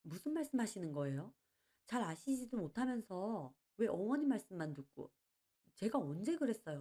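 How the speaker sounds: indignant protest. Acted. Daughter-in-law snapping back at the uncle, mildly indignant. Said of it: "며느리는 발끈해서 따졌습니다".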